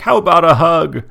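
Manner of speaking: hammed-up tough kid asking for a hug; bully asking Ferb for a hug, lightly mocked; mimicking Buford. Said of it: "He's like".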